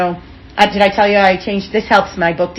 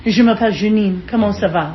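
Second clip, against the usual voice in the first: put-on French accent. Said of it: "unless I'm in France".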